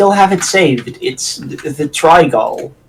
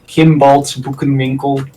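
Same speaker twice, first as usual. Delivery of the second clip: put-on lightly Dutch-accented shop name; a hint of Dutch on the name; Dutch pronunciation. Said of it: "as the Dutch would say it".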